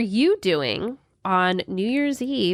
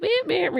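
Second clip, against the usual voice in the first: sound effect noise; 9 semitones higher, much faster than usual. Acted. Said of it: "ridiculous sound effects".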